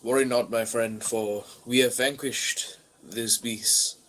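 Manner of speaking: the adventurer comforts the stranger with grandiose calm; noble hero voice. Acted. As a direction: speak like a gallant knight, lightly voiced. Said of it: "I say".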